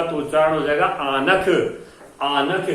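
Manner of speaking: आनख said with full n and extra vowel; आनख with clear separate n; wrong aanakh. Shown as a demonstration. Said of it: "आनख तो कोई शब्द ही नहीं है".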